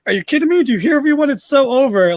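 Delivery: incredulous retort. Retold or imitated. Imitating Max mocking his partner's idea, incredulous. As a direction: act stunned the crowd's cheering. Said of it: "my favorite little detail".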